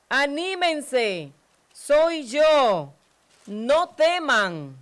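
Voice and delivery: calm the frightened disciples; Jesus calling out reassurance over the storm; Jesus reassuring. Acted. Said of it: "Pero Jesús les dijo".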